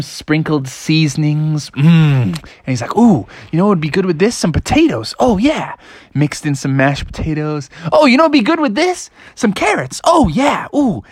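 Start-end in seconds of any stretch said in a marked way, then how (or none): 3.0-5.8 a bit higher, fast, eager frog voice; Froggy voice. Acted. Froggy cooking, excited about his recipe. 7.9-11.0 much higher, fast, giddy frog voice; excited Froggy. Acted. Froggy adding carrots, more and more excited.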